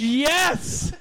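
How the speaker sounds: high, loud mock British "Yes!"; a hammed-up British exclamation; jokey posh British yes; mock British accent. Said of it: "Oh, so British".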